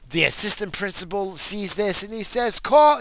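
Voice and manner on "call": high, loud mock call; retold yell. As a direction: start shouting an order like the assistant principal. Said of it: "he yells into the door".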